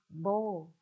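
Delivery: "ball" with a rounded oh-like vowel; British pronunciation. Shown as a demonstration. Teacher quoting what classes may hear, British pronunciation of "ball". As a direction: say "ball" close to "bowl". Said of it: "nghe cô giáo phát âm là".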